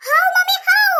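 high, eager question; eager plea. Acted. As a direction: push her for the answer. Daughter pleads eagerly.

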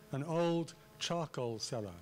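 put-on slow, with OLD, CHARCOAL and SELLER each stressed; emphatic artificial reading. Shown as a demonstration. Lecturer showing Waley's stresses to students, emphatic reading. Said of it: "read it in a rather artificial way".

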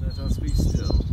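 breathy hush; whispered. Acted. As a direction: whisper a call to stillness. Call to stillness, unvoiced.

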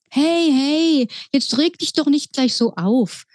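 high mouse, calming her; soothing mouse. Acted. Mouse pilot tries to calm the upset girl. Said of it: "Maus sofort Lilly zu beruhigen".

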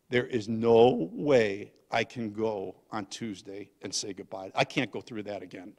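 low, weary, subdued refusal; drained refusal. Retold or imitated. Grandpa telling his wife he can't face goodbye, drained.

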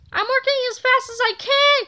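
hurried under pressure; boy fumbling with the controller; flustered cry. A narrator's reading. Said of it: "cried George".

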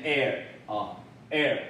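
American "air" with a curled R; American pronunciation. Shown as a demonstration. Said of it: "美国人念air".

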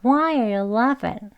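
Why are you laughing stretched out word by word; very slowly. Shown as a demonstration. Teacher drills the learners very slowly. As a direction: take it very slowly, syllable by syllable. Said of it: "우선 천천히 한번 해볼게요".

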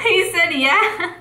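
high, through giggles; cracking up while relaying the answer; real laughing. Real, not acted. Telling viewers the player agreed, laughing helplessly.

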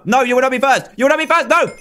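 high, urgent objection; frantic protest. Real, not acted. Player refusing to let a rival be first, frantic.

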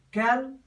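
"Calculate" split into cal, cu, late with a clear pause after each; syllable division. Shown as a demonstration. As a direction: say "Calculate" one syllable at a time, long gaps between. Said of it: "Syllable division".

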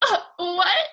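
high, loud, startled disbelief; stunned surprise. Retold or imitated. To herself as the bedroom lights flick on, startled. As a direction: gasp it out like the lights just came on. Lights turned on while praying.

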